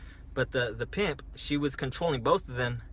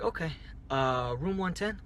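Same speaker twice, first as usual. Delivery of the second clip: office mode; 3 semitones higher, 4 dB quieter than usual. Retold or imitated. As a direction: imitate a clerk confirming a booking. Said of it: "like, office mode".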